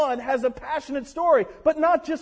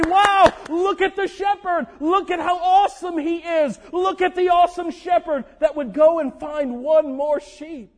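awed angels; 2 semitones higher than usual. Retold or imitated. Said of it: "the angels stand up and they say".

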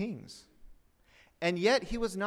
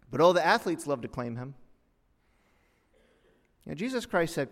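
ordinary delivery

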